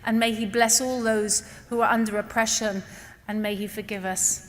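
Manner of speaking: soft, subdued supplication; closing prayer. Real, not acted. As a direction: wind down into a humble, quiet prayer.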